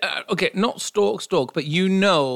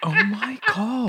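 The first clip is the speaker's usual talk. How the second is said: high, slow, laughing it out; 7 semitones higher, slower than usual. Real, not acted. Reacting to the psycho story, laughing. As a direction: drag it out through laughter.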